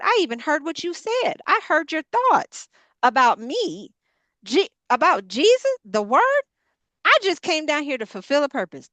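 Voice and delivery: Jesus fed up with the Pharisees, mildly played; Jesus talking back. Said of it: "this is the way I would be if it was Jesus".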